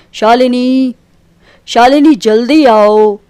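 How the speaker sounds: calling urgently for his wife, then slow; husband calls wife to come quick; calling out loud. Acted. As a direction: shout her name, drag out the plea. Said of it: "क्यों इतनी ज़ोर-ज़ोर से चिल्ला रहे हैं".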